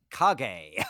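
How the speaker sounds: Kage said as "kah-gay"; anime-style reading. Shown as a demonstration. Explaining a friend's anime brain, Kage as "kah-gay". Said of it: "so she sees the name as".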